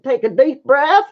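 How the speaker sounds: echoing a slight Southern twang; Southern accent. Retold or imitated. Streamer mimicking her own slip, light Southern accent. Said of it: "got all Southern sound in there".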